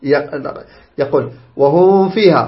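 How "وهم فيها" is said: "وهم فيها" with the meem blurred into the fa; mistaken hidden meem. Shown as a demonstration. Teacher shows students a recitation error, hidden meem. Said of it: "خطأ".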